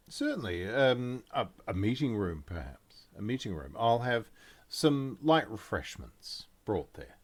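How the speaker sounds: lightly voiced polite host, hesitating; obliging concierge. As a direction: offer it deferentially, feeling for the right words. Concierge answers the guests.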